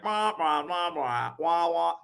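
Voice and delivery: muffled trombone wah-wah; Charlie Brown adult. Retold or imitated. Mocking a cold caller as the cartoon adults' drone. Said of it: "adults are like".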